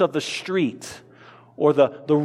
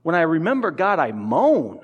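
mournful moan. Shown as a demonstration. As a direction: let the moan sink down mournfully. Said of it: "He, he moans".

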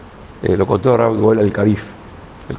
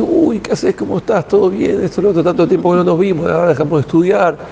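higher-pitched, lightly acted delighted surprise; excited reunion greeting; 5 semitones higher than usual. Old study partners meet by chance in the street, excited greeting. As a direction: greet a long-lost acquaintance in a raised, hurried chatter.

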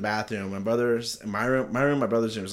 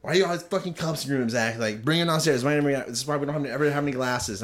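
quick, slightly raised mock scolding; retold nagging; nagging mom; faster than usual. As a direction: imitate a mom's rapid complaining. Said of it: "My mom always bitched at me".

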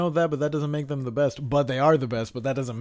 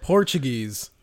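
mock taunt; 7 semitones higher, 6 dB louder, much slower than usual. Real, not acted. Mocking friend back.

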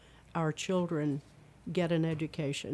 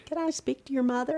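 caller voice; 10 semitones higher, faster than usual. Retold or imitated.

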